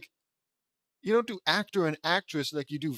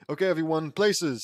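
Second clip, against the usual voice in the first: megaphone voice; 3 semitones higher, 6 dB louder than usual. Acted. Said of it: "says Lucy into a megaphone".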